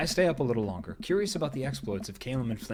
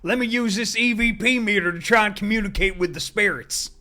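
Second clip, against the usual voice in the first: higher, louder hammed-up Southern trucker; Southern accent; 8 semitones higher, 7 dB louder than usual. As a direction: play the Southern ghost hunter proud of his gadget. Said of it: "they're written Southern, too".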